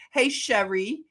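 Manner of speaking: Philly-style greeting to Sherry; Philly accent. Shown as a demonstration. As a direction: say Sherry the Philadelphia way. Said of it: "say it like we say it in Philly".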